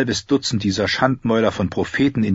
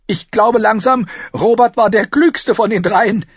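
high, loud, mirthful; giddy gasping; 6 dB louder than usual. A narrator's reading. Cersei joking that Robert was the cleverest, giddy. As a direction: exclaim it on the edge of giggles. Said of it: "keuchte sie".

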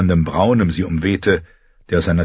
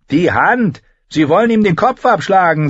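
put-on higher boy's voice, hurried; 11 semitones higher, 4 dB louder than usual. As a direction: answer over the shoulder. Boy answers. (höhere Jungenstimme)

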